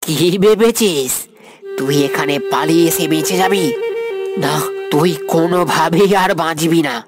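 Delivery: vengeful taunt; menacing threat. Acted. Avenger threatens fleeing victim.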